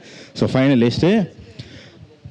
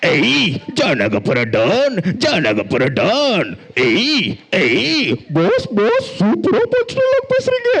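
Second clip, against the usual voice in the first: slow drawn-out villain taunting; hammed-up cartoon bad guy; 4 semitones higher, slower than usual. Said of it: "villain character வரும்".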